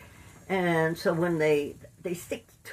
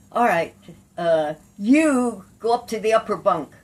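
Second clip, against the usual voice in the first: loud, higher-pitched command; retold cop's order; 4 semitones higher, 8 dB louder than usual. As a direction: order it like a cop in charge. Cop ordering her to bunk.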